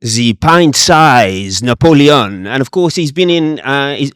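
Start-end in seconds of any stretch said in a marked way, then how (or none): 0.0-2.5 slow, drawn-out attempt at a French accent; mock-French announcement, savouring each word. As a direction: put on a questionable French accent slowly. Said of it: "that was my French accent".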